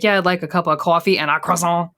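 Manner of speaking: "croissant" said the French way in an American order; French-style croissant order. Retold or imitated. American mocking how silly it sounds ordering at a bakery, affected French pronunciation. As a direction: order plainly, then put on a French "croissant". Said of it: "Do you know how stupid you sound".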